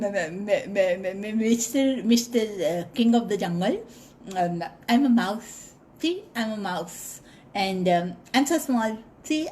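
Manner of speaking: nervous stuttering little mouse; stammering mouse. Acted. Frightened mouse stammering before the lion king. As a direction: stammer it out, scared stiff. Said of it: "So the mouse said".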